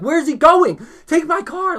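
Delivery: very high, loud mock panic; retold freak-out. Arrested guy watching his friend skate off, high-pitched mock panic. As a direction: cry out in exasperated alarm, acted. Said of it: "So I'm, like, freaking out".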